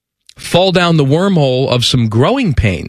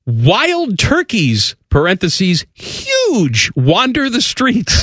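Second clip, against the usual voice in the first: incredulous reading; 4 semitones higher, slower than usual. Acted. Reading absurd quote.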